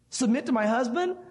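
rising indignation. Retold or imitated. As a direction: push the disbelief up. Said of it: "maybe you're saying".

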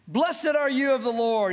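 hammed-up pious greeting; fake Christianese. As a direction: put on a phony churchy welcome. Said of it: "He starts speaking Christianese".

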